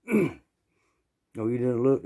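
incredulous boss. Retold or imitated. Boss questioning him.

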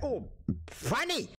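high, slow fake chuckle voice; mock amused listener. Mocking how audiences react to a comedian, slow and high. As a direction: put on a smug fake amused tone. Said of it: "they'd be like".

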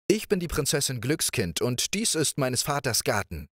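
playful princess. Acted. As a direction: coax him like a carefree young princess. Princess introduces herself.

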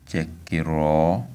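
chekiro said slowly, rising onto a high final syllable; slow model chekiro, tone lifted after the low start; low then high tone. Shown as a demonstration. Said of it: "the second one has a high tone".

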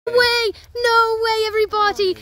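loud, high thrilled yell; excited shout. Real, not acted. Hiker spotting a black snake on the trail, yelling with excitement.

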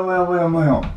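high, loud cartoon meows; rat's meowing call. Shown as a demonstration. Director shows the rat poking out, squealing meows. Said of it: "stick his head out and go".

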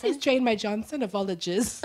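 badly faked English accent; mock-polite English gentleman; hammed-up English accent. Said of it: "how to do an English accent".

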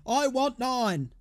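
P=A; slow repeat. Real, not acted. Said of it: "Let's spank these guys".

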